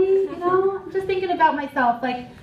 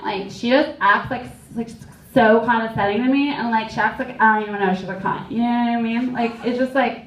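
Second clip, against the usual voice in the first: lightly voiced catty friend, barely changed; a hint of a gossiping frenemy venting; Danielle's voice. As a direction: friend voiced mildly, trashing Elizabeth behind her back. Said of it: "I'll just do it in her voice".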